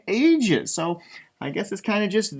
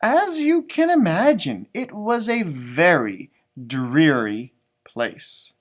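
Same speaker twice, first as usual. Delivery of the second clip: reads the opening slowly like a picture book; storybook reading voice; story narration; 2 semitones lower, slower than usual. A narrator's reading. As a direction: set the scene for young listeners.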